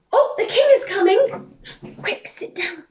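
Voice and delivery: high, laughing warning call; laughing alarm. Pretend. Teacher laughs as she warns the king is coming, excited. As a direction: laugh while raising the alarm.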